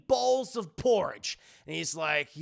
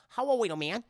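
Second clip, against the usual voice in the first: a hint of Adam Sandler's Waterboy; mild Waterboy impression. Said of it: "He sounds like Adam Sandler in Waterboy".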